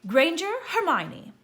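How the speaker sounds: loud, high roll-call announcement; calling out names. A narrator's reading. Professor calling the next pupil loudly to the stool. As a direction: call each name across the hall.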